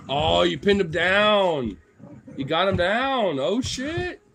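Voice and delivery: high, drawn-out amazed exclamations; excited cheering. Real, not acted. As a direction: cheer on the play-fight in rising disbelief. Excitedly cheering on wrestling dogs.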